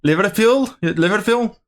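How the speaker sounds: attempted Scouse accent, questioning lilt; bad Scouse accent. Shown as a demonstration. YouTuber trying the contestant's hometown in a terrible Scouse accent. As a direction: have a poor go at a Scouse accent. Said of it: "that's the terrible accent".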